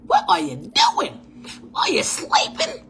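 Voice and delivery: very high, slow, half-whispered call; calling out for the guest. Real, not acted. Waiting on a late podcast guest, high slow calling. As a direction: coax the sleepy guest awake.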